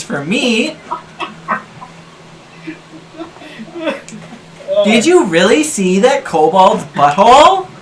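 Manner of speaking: high, loud, sweet lady voice; man doing a woman's voice. Acted. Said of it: "There she is".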